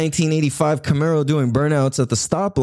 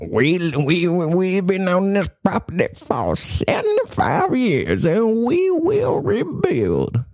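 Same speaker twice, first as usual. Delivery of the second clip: slow, rising stubborn vow; hammed-up defiant landowner promising to rebuild; defiant homeowner; 4 semitones higher, slower than usual. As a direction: drag it out proudly, voice climbing high. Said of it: "American culture".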